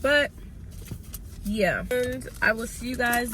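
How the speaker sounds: hoarse voice from a cold; sick voice. Real, not acted. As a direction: voice cutting in and out, sick. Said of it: "Excuse my little sick voice".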